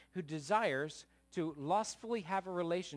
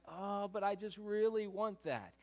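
put-on childish whining; 3 semitones higher than usual. Preacher acting out people wanting what they can't have, whiny. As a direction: plead like a small child who can't have it. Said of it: "And we're like two-year-olds".

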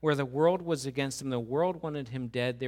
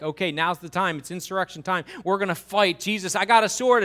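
excited shout; 6 semitones higher, 10 dB louder than usual. Retold or imitated. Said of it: "he's like".

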